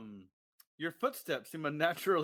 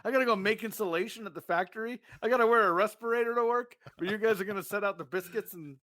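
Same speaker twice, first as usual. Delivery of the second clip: mock whiny complaint; 5 semitones higher, 4 dB louder, faster than usual.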